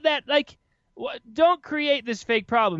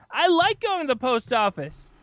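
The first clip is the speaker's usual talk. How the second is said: higher-pitched, puzzled protest; indignant retort; 6 semitones higher than usual. Acted. Podcaster answering a post office commercial, indignant. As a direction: argue back at an absurd ad.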